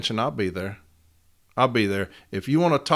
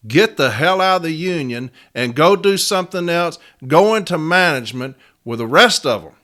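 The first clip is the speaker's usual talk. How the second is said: angry rant; 2 semitones higher, 5 dB louder than usual. Real, not acted. Union steward ranting at members who snitch, loud and heated. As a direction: lay into them, furious and loud. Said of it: "I'm sorry I got on that rant".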